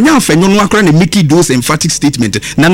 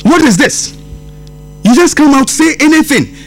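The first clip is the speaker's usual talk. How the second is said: higher-pitched, exasperated scolding; real exasperation, pitched up; indignant rebuke; 6 semitones higher than usual. Real, not acted. Indignant rebuke of political opponents.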